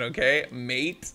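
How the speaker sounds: slow, mock Australian okay, mate; a badly faked Australian drawl on mate; bad Australian accent. Caster jokingly tosses his co-caster's Australian accent back, very slowly. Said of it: "That mate was terrible, by the way".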